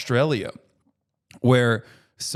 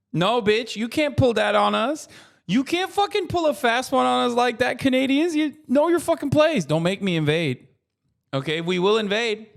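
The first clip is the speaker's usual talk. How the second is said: pitched way up, hammed-up fury; mock outraged threat; 9 semitones higher than usual. Streamer playfully threatening Canadians with invasion, hammed-up high-pitched outrage. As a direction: scold Canada like an indignant bully.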